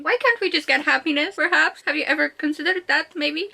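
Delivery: high-pitched, pained complaint; exasperated plea. Real, not acted. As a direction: plead with the author for mercy. Upset plea to the author.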